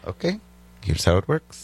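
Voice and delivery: hint of an Israeli booker laying down the rules; bad Israeli accent. Comic imitating the Israeli club booker in a bad Israeli accent. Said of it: "I'm doing a bad accent".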